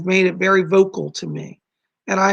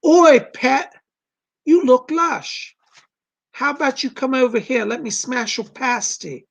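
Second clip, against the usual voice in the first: breathy hushed Geordie pickup line, slowed; lightly put-on Geordie flirting; mock Geordie chat-up; 5 semitones higher, 3 dB louder than usual.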